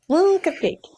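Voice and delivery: laughing. Real, not acted. Laughing while saying it.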